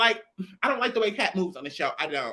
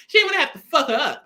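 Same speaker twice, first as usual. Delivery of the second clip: louder and higher, laughing through it, fast; laughing repeat; 5 semitones higher, 5 dB louder, faster than usual. Real, not acted. Gossiping about Scotty and Razor, laughing loudly. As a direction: crack up as you say it again.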